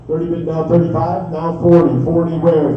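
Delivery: rolling rhythmic auction chant; auctioneer. Real, not acted. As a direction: rattle off the bids in a steady chant. Live auction bid calling.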